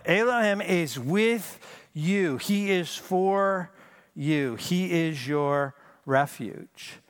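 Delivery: each word drawn out and pressed; slow sincere assurance. Acted. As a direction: lay it on them gently, word by word. Slow emphatic preaching.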